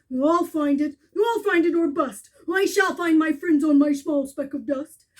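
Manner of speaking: loud, firm declaration; stubborn loud promise; determined vow. Acted. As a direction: swear you will find them. Horton's loud resolve.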